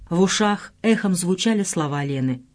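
plain reading voice

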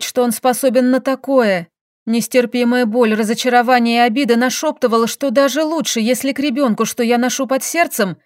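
plain reading voice

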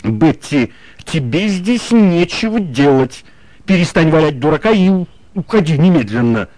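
firm scolding voice; stern voice. A narrator's reading. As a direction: order her out sternly. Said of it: "произнёс строгим голосом".

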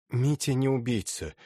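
put-on dull, hollow old woman's voice. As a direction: speak in a muffled, hollow tone. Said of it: "раздался глухой голос Анны Михайловны".

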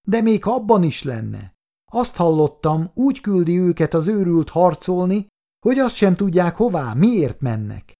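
high, pressing, exhausted outrage; impassioned plea. Acted. Nurse pleading with soldiers, high and impassioned. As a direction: pour it out at them, urgent.

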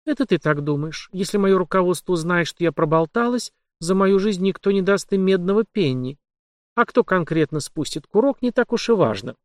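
put-on young woman voice. Heroine's voice.

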